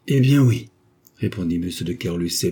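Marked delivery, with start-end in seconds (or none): 0.1-0.7 cornered admission. A narrator's reading. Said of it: "poussé dans ses derniers retranchements".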